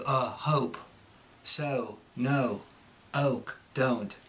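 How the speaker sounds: broad Cockney, uh before o; proper broad Cockney vowels; Cockney accent. Shown as a demonstration. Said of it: "Cockney's gonna make it like".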